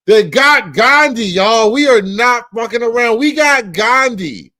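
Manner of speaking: loud roll call. Acted. Reading indictment names loudly.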